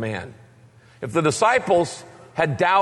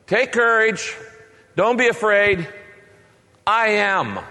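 higher, measured proclamation with pauses; commanding declaration; 4 semitones higher than usual. Acted. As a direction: proclaim it to frightened men, phrase by phrase. Voices Jesus declaring himself on water.

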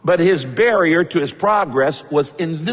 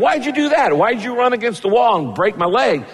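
higher, indignant yelp at the donkey; mock angry Balaam; 6 semitones higher than usual. Balaam yelling at his donkey who crushed his foot, mock angry. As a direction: play Balaam scolding his donkey, half hammed-up. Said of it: "Balaam looks at the donkey and goes".

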